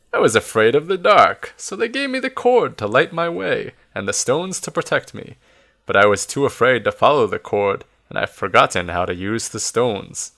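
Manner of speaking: lightly voiced old man reminiscing; storytelling old keeper, lilting; Nesbit. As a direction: recount the old days with swooping pitch. Voices Nesbit telling his history.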